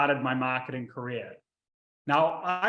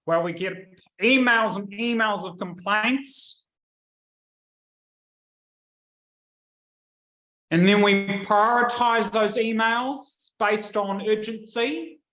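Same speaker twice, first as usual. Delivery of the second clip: bored monotone, a bit higher and slow; 4 semitones higher than usual. Retold or imitated. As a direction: drone it like a bored clerk. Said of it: "in the most monotone voice".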